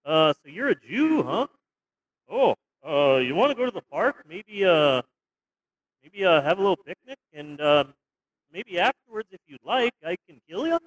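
put-on a light, friendly Canadian accent with a tacked-on eh; lightly voiced cheerful Canadian neighbour; mock Canadian accent. Imitating a polite Canadian Nazi for his co-host, in a light Canadian accent. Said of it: "a Canadian Nazi is just like".

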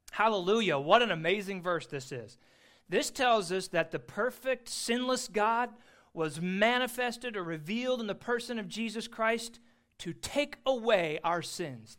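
loud, lifted praise with weighty stresses; exultant preaching. Real, not acted. Preacher praising an amazing verse to his congregation, loud and exultant. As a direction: proclaim it with ringing joy.

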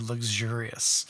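luxurious drawn out slowly, savouring each sound; savoured luxurious. Shown as a demonstration. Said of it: "I like that word".

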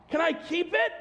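put-on high hopeful child voice; little son's voice. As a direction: ask like a tiny boy. Child voice quoted in story.

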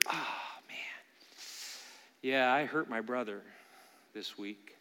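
breathy hush of sudden guilt; whispered realization. Acted. Worshipper remembering mid-song that he hurt his brother, whispered. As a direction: whisper it as if it just hit you.

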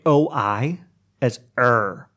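OI turned into ER; New Orleans vowel. Shown as a demonstration. Explaining New Orleans speech to a listener, OI as er. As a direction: demonstrate OI said as er. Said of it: "really weird way of speaking".

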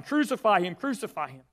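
the temple guards shouting at Pilate, mock crowd chant. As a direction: call it out like the angry crowd, then let it drop. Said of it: "began shouting".

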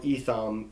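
Etham said as "EE-tham" with a long e; Englishized pronunciation. Shown as a demonstration. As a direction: anglicise Etham with an opening "ee". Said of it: "if it's become Englishized".

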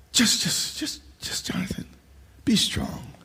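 hushed, breathy whisper of encouragement; whispered urging from God; urgent whisper. Acted. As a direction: whisper it close, like a secret.

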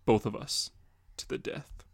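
whispered, almost soundless warning; grim whisper. Acted. Batman warning the Joker, whispered and grim. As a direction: breathe it like a final verdict.

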